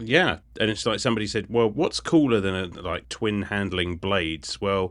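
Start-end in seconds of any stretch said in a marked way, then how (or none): none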